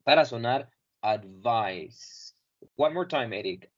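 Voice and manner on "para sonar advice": "advice" with the v close to an f; soft v. Shown as a demonstration. Teacher showing the v sound in "advice". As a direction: say "advice", v almost like f. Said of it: "casi como si fuera una F".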